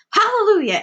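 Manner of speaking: high, jubilant cry; Aunt Spiker shouting with glee; joyful shout. Acted. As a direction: shout it to the sky. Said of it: "Spiker shouted".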